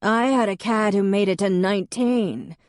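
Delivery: booming voice. Acted. Lorena telling the mourners about her cat, booming. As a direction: boom it across the room. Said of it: "in her booming voice".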